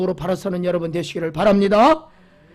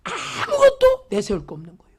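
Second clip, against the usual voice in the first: tearful; 3 semitones higher than usual. Real, not acted. Preacher repeating the line to the congregation, now tearful. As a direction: voice breaking with tears on the repeat.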